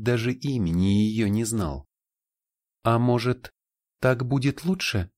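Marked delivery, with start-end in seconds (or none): 2.8-5.1 higher, coy teasing voice; teasing seductress. Acted. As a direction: tempt him playfully, a touch higher. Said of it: "сказала она".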